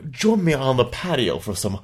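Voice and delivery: drawn-out mock Southern accent; Southern impression. Shown as a demonstration. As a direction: invite them in with a put-on Southern drawl. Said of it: "your southern impression".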